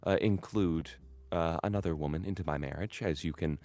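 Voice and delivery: measured, formal matriarch speaking with cool dignity; stately noble mother. Acted. Noble mother to her estranged stepchild, formal and cool.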